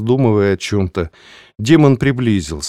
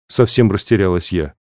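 ordinary delivery

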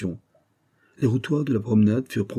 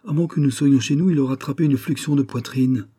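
higher, louder, lamenting; moaning mother; 5 semitones higher, 3 dB louder than usual.

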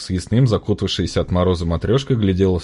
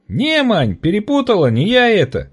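mock serious; 13 semitones higher than usual. A narrator's reading. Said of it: "с видом самым ... серьёзным и строгим".

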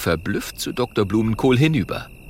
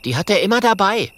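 quick eager explanation; 11 semitones higher, 5 dB louder, faster than usual. Acted.

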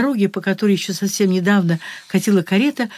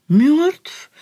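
higher doubtful rising question; disbelieving; 5 semitones higher than usual. Acted. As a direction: ask it back in disbelief. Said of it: "недоверчиво переспросил маркиз".

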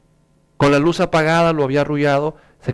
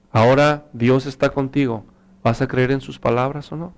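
lightly voiced father, mostly lower; gentle father; 4 semitones lower than usual. Father tells son to trust God tonight, gentle. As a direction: reassure a son calmly and sincerely.

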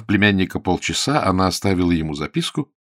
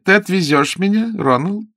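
imperious aunt; 10 semitones higher, 6 dB louder than usual. Acted. The aunt commands her nephew.

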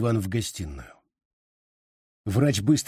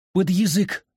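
sharp raised command; 8 semitones higher, 3 dB louder than usual. A narrator's reading. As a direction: order him firmly to put it under. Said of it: "скомандовала она". (скомандовала громко)

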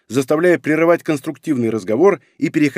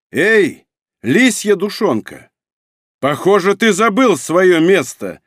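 loud, slow, threatening command; menacing shout; 6 semitones higher, 4 dB louder, slower than usual. A narrator's reading. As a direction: bark it down at him like a lord. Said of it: "голос с приправой в виде яки". (грозный окрик, медленно и громко)

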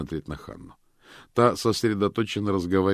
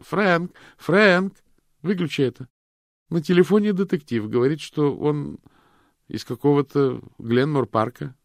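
much higher and louder, calling across the house; 10 semitones higher, 8 dB louder than usual. A narrator's reading. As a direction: yell to her husband in the next room. Miranda calls out to husband.

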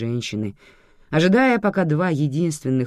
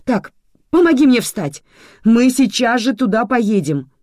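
urgent command; 8 semitones higher, 8 dB louder than usual. A narrator's reading. Mother urgently demands to leave.

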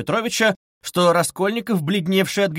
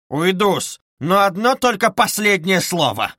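higher, louder barely held fury; losing control; 6 semitones higher, 4 dB louder than usual. A narrator's reading. Luzhin, barely in control, insists on a last word, higher and louder. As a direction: clamp down on fury, failing. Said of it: "почти совсем не владея собою".

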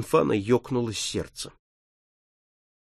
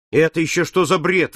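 exclaiming; 3 semitones higher, 3 dB louder than usual. Acted. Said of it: "воскликнул Сорвиголова".

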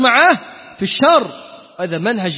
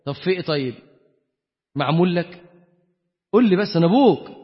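gentle father; 3 semitones lower than usual. Retold or imitated. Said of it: "طبطب عليك".

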